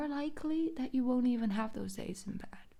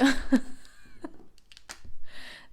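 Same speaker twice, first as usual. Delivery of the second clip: laugh; 6 semitones higher, 4 dB louder than usual. Real, not acted. Laughs after told you.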